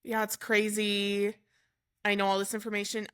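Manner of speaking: imitating her unfeeling, matter-of-fact reply; detached, even-toned quote; emotionless. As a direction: retell it with no emotion at all. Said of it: "she had no feeling, no emotion".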